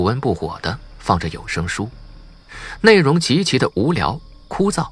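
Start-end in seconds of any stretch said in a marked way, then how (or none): none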